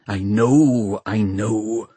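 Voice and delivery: mild irritation; irritably. A narrator's reading. Valentine cutting off Crome's rebuke, mildly irritable. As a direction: brush him off a little testily. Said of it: "said Valentine irritably".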